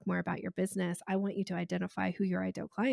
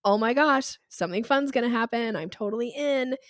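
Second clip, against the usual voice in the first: excited dog; 3 semitones higher, 7 dB louder than usual. Retold or imitated. Dog reacting to an eager caller.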